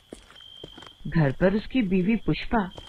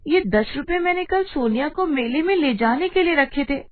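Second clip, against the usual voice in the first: indignant protest; 6 semitones higher than usual. Acted. Wife protests losing saved money.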